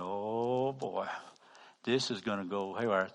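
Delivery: low, soft aside; wry private dread. Retold or imitated. Preacher waiting behind the man at checkout, hushed dread. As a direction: think it aloud with sinking resignation.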